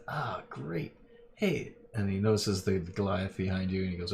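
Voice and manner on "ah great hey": higher, pleased boss spotting someone; shady boss noticing the big guy. Acted. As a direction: boss reacting, raised pitch. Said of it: "he says".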